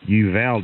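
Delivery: Uvalde with a short "a" as in "val", no O sound; corrected town pronunciation. Shown as a demonstration. Texan operator correcting his town's name, Uvalde with "val". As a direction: say Uvalde with a flat "val" middle, not "vol". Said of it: "there's no O in it".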